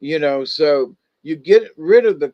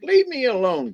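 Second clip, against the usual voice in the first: mock grumpy bear; 9 semitones higher than usual. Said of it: "he's a gruff old bear".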